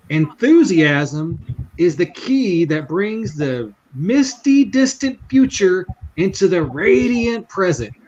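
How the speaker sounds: slow, drawn-out quotation with pitch leaping up; cowboy's motto. Retold or imitated. Cowboy advising a discouraged salesman, slow and emphatic retold motto. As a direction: deliver it like a grand maxim, slowly. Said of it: "he goes".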